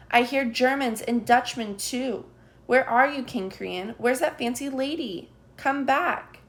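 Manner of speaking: high, loud frantic calling; loud shouting. A narrator's reading. Child calling for the puppets as soldiers arrive, loud. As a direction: shout across the hall for the king. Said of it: "loud voices in the hall".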